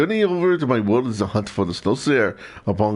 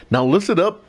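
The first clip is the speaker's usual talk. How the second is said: put-on a halting try at the fairy's Welsh accent; attempted Welsh accent. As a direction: read the fairy's lines in a rough Welsh accent, stumbling. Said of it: "I'm trying to do the accent".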